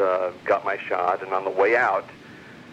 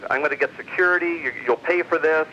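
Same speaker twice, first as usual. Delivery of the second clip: much higher, mildly raised mock outrage; retold angry threat; 7 semitones higher than usual. Car owner threatening the storyteller, mock sputtering outrage.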